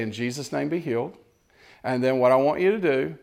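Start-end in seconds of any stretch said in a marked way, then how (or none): 0.0-1.2 soft, quiet, unforced "In Jesus' name, be healed"; gentle relaxed prayer. Shown as a demonstration. Preacher showing the congregation a calm, quiet healing prayer. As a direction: say "be healed" softly, no strain at all. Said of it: "which is just say".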